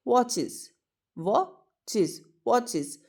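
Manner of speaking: "वॉचेस" repeated, the middle one slowed; slow the "इज" ending of "वॉचेस"; drawn-out iz ending. Shown as a demonstration. Teacher showing students the iz sound in watches. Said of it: "क्या sound produce हो रही है?".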